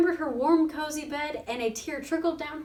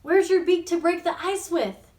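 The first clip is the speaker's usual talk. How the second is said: gloating duck; 5 semitones higher, 5 dB louder than usual. A narrator's reading.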